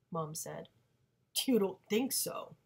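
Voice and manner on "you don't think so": louder, higher sarcastic repeat; sarcastic echo. Acted. Father mocking mom's answer, sarcastic. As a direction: throw her words back with scorn. Father sneering back at mother.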